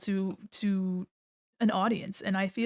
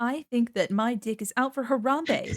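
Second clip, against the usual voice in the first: clean, polite, friendly customer-service voice; 2 semitones higher than usual. Speaker demonstrating a joke delivered in a clean, customer-service friendly voice. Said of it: "in like the cleanest, most customer service friendly voice".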